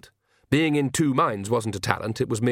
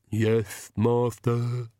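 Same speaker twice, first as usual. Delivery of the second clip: comic lisping henchman; ridiculous servant voice; much slower than usual. A narrator's reading. Igor answering the Count, ridiculous lisping servant voice. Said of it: "the ridiculous voice".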